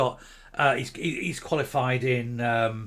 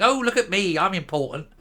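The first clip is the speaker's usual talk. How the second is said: smug mock voice; 3 semitones higher than usual.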